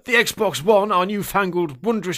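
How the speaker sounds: hammed-up ye olde English shop patter; Victorian English gentleman. Salesman refusing customer without internet, Victorian English gentleman. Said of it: "a ye olde English Victorian-y style".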